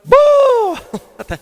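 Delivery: sudden high yelp right at the spider; startled shout of boo. Retold or imitated. Drummer yelling at a huntsman spider on his drum, sudden high shout. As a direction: yell it out to scare him off. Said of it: "and I go".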